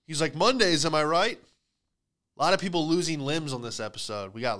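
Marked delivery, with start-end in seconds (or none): 0.3-1.4 cheery coworker quip. Retold or imitated. Injured coworker voiced joking.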